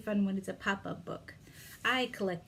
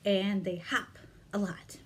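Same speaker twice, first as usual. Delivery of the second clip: whispering. Acted. Whispered during finger play.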